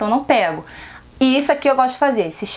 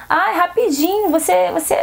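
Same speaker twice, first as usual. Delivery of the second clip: higher-pitched imitation of a pushy client; mock coaxing; 6 semitones higher than usual. Seamstress mimicking clients who want everything for yesterday, mock coaxing. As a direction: wheedle lightly in a put-on higher voice.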